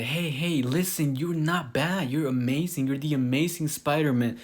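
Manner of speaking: lightly acted buck-up to a discouraged friend; encouraging. Acted pep talk to a discouraged hero.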